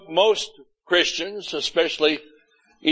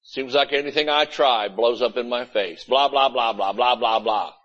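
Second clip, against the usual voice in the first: lightly mocked grumbling, lower toward the end; imitated complainer; 4 semitones lower than usual. Preacher mimicking people's negative confessions, lightly mocked complaining. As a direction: trail into a low, dismissive blah-blah. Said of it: "people talk like that".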